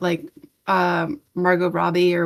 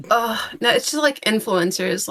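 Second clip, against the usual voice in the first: normal talking voice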